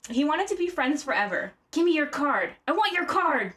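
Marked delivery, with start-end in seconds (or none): 1.7-3.5 put-on higher, pushy drunken demand; insistent demand. Host acts Cage pestering a husband, insistent demand. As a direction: press him for it, pitched up. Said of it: "said Cage to the husband".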